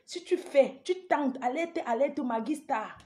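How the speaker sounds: soft-voiced alert; speaking softly. Shown as a demonstration. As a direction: keep the volume held back. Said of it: "je vais parler doucement".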